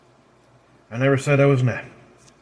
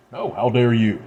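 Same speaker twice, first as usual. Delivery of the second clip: indignant retort. Acted. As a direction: fire "No, how dare you?" back with force on "dare". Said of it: "she snarls".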